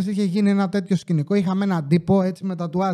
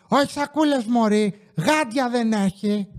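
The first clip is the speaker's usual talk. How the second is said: a snippy granny correcting the cashier; rude old lady; 3 semitones higher, slower than usual. Retold or imitated. Imitating an old lady who snaps at the cashier.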